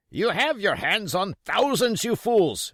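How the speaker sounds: high, loud scorn; raging blind man. Acted. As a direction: berate the fools. Pugh rages.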